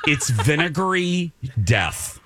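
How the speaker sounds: laughing while describing a gross smell; laughing disgust. Real, not acted. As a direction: chuckle through it, grossed out.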